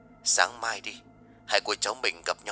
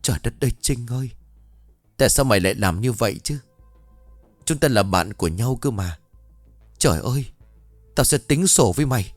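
exclaiming in shock; 3 semitones higher than usual. Acted. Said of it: "Bà Huệ lập tức thốt lên".

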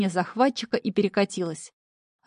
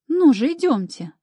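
higher, louder urging call; cheerful call to hurry; calling them on; 6 semitones higher, 5 dB louder than usual. A narrator's reading. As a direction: wave them forward with your voice. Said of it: "помахала рукой Нами".

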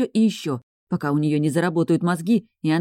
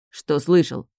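snapping back; slower than usual. Acted. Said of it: "огрызнулся Нейтан".

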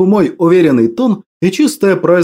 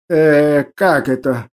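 frightened; 4 semitones lower, slower than usual. A narrator's reading. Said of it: "Толстяк испуганно заозирался".

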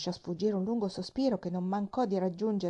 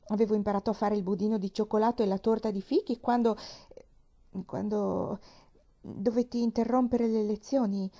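voice breaking; 2 semitones higher, 3 dB louder than usual. Acted. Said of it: "la voce di Pollyanna ebbe un cedimento".

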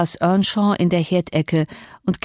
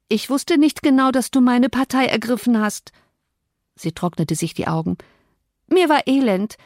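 higher, earnest apology; contrite young Cathy; 4 semitones higher than usual. Acted. Cathy apologises to her cousin, contrite. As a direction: soften into a lightly acted apology.

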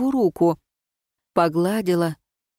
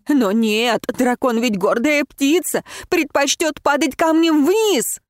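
angry outburst; 7 semitones higher than usual. Acted. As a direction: shout your hurt at him. Heroine still shouting at Ron.

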